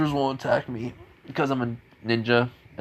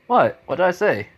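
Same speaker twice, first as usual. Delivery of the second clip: confused what; 7 semitones higher, 4 dB louder than usual. Retold or imitated. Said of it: "everyone's just looking at Naruto like".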